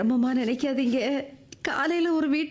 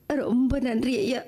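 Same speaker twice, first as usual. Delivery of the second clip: tearful thanks. Acted. Widow thanking the man who will help, tearful.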